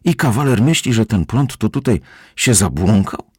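high, agitated housekeeper; alarmed questioning. A narrator's reading. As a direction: question loudly in disbelief. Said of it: "przeraziła się gospodyni".

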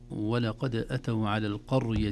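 slow, measured tajweed recitation; Quran recitation. Shown as a demonstration. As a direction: recite the verse slowly, drawing out the long vowels. Recites the verse slowly.

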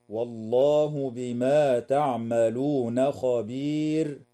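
slow chanted recitation ending on خبير; Quran recitation. Shown as a demonstration. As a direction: recite slowly to the end of the verse. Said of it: "تنتهي الآية عند كلمة خبير". (تلاوة بطيئة حتى خبير)

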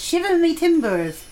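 growled pirate line, high and slow. Acted. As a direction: play it like a hammy pirate. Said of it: "Did that sound like a good pirate then?".

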